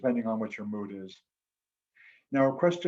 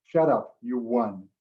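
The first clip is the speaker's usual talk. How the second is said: blunt mock retort; 3 dB louder, slower than usual. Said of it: "she said it a little nicer than that".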